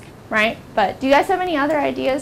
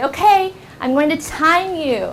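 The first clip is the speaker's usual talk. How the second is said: announcing teacher; 6 semitones higher than usual. Shown as a demonstration. Teacher addressing class, demonstrated.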